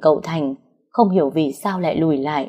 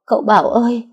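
anguished cry; 4 semitones higher than usual. Acted. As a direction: call out to him in panic. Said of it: "liền lắp bắp nói".

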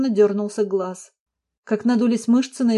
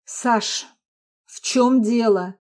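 a light hint of a worried husband, slow; much slower than usual. A narrator's reading. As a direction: ask gently, with concern. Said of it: "обеспокоенно спросил он". (обеспокоенно, чуть медленнее)

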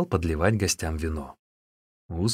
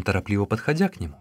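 ordinary delivery, nothing marked

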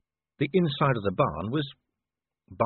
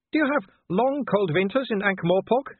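put-on much higher, eager girlish voice; youngest sister hopeful; 10 semitones higher, 3 dB louder than usual. A narrator's reading. Youngest sister asks Vimes hopefully, much higher. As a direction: ask it like a dreamy young girl. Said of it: "she said".

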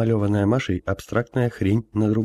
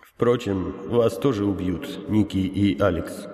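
sad; slower than usual. Acted. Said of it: "грустно добавил старец".

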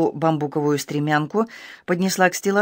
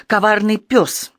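cry out; 4 semitones higher, slower than usual. Acted. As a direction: spit each word at him slowly. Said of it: "вскричала она". (медленный яростный выкрик)

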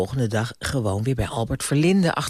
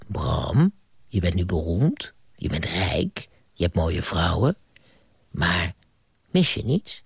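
a lower, hushed ghost voice; old ghost Moskou; 5 semitones lower than usual. Acted. Old ghost returning to Bram's bed, lower hushed voice. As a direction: murmur it low like an old ghost.

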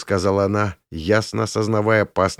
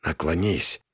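hissed; 4 semitones lower, 5 dB quieter than usual. A narrator's reading. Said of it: "чуть тише прошипел Грин".

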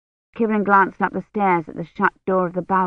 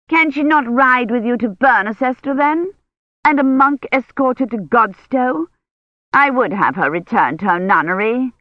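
higher, fast urgent appeal; pleading old lady; 5 semitones higher than usual. A narrator's reading. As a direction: remind the bishop's man insistently. Imeyne's voice in story.

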